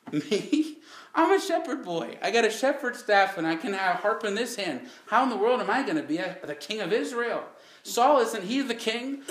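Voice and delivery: stunned disbelief. Acted. David stunned at being chosen.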